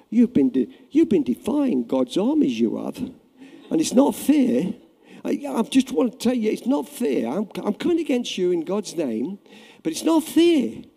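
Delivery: put-on a meek boy pleading it's not fair; mock weak David whining at the giant; timid whiny David. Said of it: "and he talked like this?".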